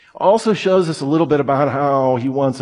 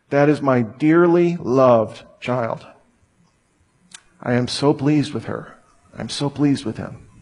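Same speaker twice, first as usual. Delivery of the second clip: tender father. Acted. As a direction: murmur it like a loving father. God's thoughts of his child.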